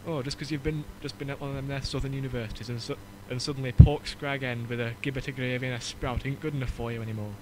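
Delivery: lightly voiced Yorkshire scolding; a hint of a grumbling Yorkshire dad; mock Yorkshire parent. Retelling a Christmas card joke, light Yorkshire grumble. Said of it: "a Yorkshire family having a Christmas dinner".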